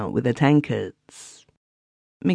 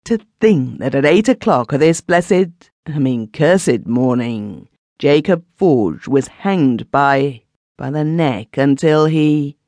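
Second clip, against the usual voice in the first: emotional outburst; 2 semitones higher, 4 dB louder than usual. Acted. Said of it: "in a sudden burst of emotion".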